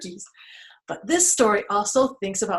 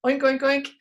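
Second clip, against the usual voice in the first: higher, bouncy oinking; higher-pitched pig noise; pig oinks; 4 semitones higher than usual. Shown as a demonstration. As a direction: oink playfully like a pig. Shows children a pig noise.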